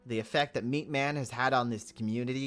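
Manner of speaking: ordinary talk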